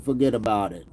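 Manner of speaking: a light movie Italian-American "Forget about it"; tossing off the movie Italian line; movie Italian accent. Pretend. Streamer riffing on trolls in a light movie Italian accent. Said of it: "That's another accent maybe I should work on".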